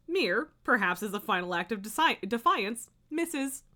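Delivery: lively nonfiction narration; book read-aloud. A narrator's reading. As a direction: read it out with punched openings and clear phrasing.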